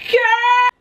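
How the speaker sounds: high, loud outburst of disbelief; shocked exclamation. Retold or imitated. Storyteller reacting to the girl's confession, shocked. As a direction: cry out in high-pitched shock.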